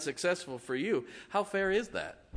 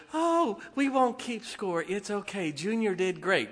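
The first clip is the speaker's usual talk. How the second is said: mock coddling parent; 5 semitones higher than usual. Mocking soft modern parents.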